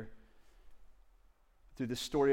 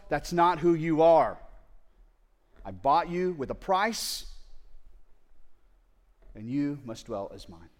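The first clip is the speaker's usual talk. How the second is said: passionate declaration; 5 dB louder than usual. Acted. God passionately affirms unfaithful wife.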